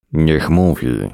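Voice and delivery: plain reading voice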